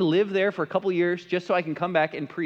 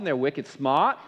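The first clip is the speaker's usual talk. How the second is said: put-on joking Boston accent, dropped R in "smart"; lightly put-on Boston twang; 4 semitones lower, slower than usual. Preacher teasing people from Boston, mock Boston accent. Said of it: "people from Boston".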